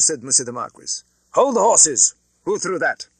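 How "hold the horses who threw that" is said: high, loud furious command; angry shout. Acted. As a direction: yell at the coachman in outrage. Marquis halts his carriage.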